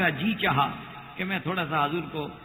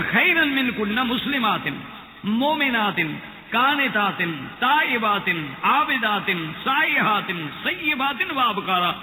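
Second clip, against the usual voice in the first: emphatic Quran recitation; 2 semitones higher, slower than usual. Shown as a demonstration. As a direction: proclaim the list to the congregation. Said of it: "اس لیے قرآن کہتا ہے کہ".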